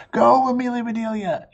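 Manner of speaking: high, loud cheering yell. A narrator's reading. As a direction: cheer her on with all you've got. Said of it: "yelled Joy".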